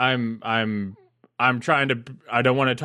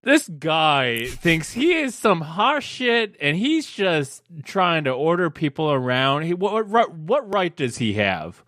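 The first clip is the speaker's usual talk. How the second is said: indignant rant; 5 semitones higher, slower than usual. Acted. Player rants in character.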